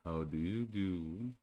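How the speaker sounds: slow, gloomy donkey greeting; mild slow gloomy Eeyore. Acted. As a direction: drag it out like a glum old donkey. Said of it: "in a gloomy manner".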